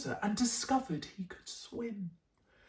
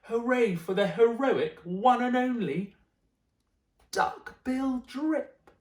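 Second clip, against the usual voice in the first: cheering hoot; 5 semitones higher, slower than usual. Acted. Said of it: "They hooted".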